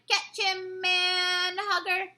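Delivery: hollered across the circle like a brute; giant shouting. A narrator's reading. Giant tossing the BFG, shouting to another giant. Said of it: "He tossed him high in the air and shouted".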